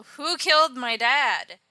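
a hammed-up grieving outburst; distraught son. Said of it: "is all".

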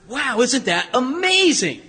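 slow, acted-out amazement; marveling. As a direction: imitate an awed onlooker, drawing it out. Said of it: "everybody's marveling at it".

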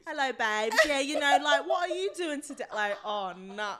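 put-on British accent, Peaky Blinders style. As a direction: ham up a Brummie gangster accent. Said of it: "You went Peaky Blinders on them".

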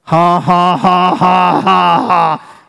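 even, drawn-out ha-ha-ha; deliberate laugh. Shown as a demonstration. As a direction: laugh steadily on purpose, beat by beat. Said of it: "And just laugh".

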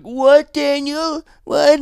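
very high, loud mock-baffled mom; shrill mock confusion. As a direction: play the baffled mother, way up high. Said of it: "she's like".

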